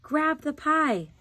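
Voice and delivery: high, loud and slow; urgent cry. A narrator's reading. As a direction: call it out so she moves. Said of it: "he cried".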